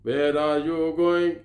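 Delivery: put-on slow, spelled-out Punjabi-accented English; mock a guard speaking English in a Punjabi accent; lightly hammed-up Punjabi accent. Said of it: "Punjabi में अंग्रेज़ी बोलेगा".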